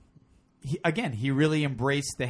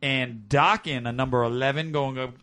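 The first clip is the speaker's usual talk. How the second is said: strip club DJ voice. Acted. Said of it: "strip club D J voice?".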